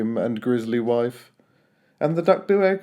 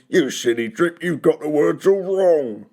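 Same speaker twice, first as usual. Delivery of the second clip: yelled; 3 semitones higher, 4 dB louder than usual. A narrator's reading. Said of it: "the others yelled".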